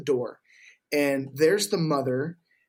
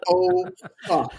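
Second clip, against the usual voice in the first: a high, louder yelp of dismay; mock dismay; 4 dB louder than usual. Seeing the tweaker's room, high mock yelp of dismay. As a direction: squeal it out in mock horror. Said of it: "and I'm like".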